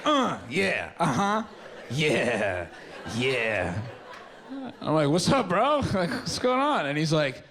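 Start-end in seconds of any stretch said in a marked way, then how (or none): 0.1-3.8 a dazed buddy mumbling agreement; dazed friend. Retold or imitated. Friend acting dazed on shrooms. 5.1-6.9 high, bright bro greeting with a laugh; a high bro-to-bro hello; mock cheery greeting.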